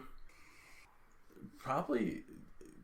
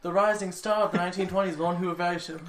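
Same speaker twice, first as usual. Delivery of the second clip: lightly voiced character, pitched up; put-on character voice; 5 semitones higher, faster than usual. Performer showing off a favorite role, lightly put-on character voice. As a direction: play up the character's grand introduction a little. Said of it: "I just wanted to hear the voice again".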